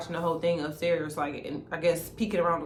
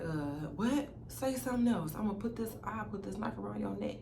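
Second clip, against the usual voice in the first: lightly voiced sister threatening with a knife; menacing sister; 2 semitones higher, 9 dB quieter than usual. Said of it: "And she was like".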